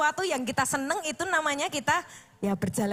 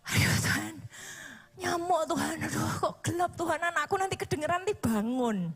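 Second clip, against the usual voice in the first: whiny sleepy prayer; 3 semitones higher than usual. Retold or imitated. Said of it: "Saya biasanya ngomongnya gitu".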